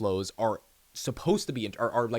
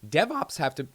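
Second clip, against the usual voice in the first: voice cracking; 5 semitones higher than usual. Real, not acted. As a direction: voice cracks mid-word. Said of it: "sorry, my voice cracked right there".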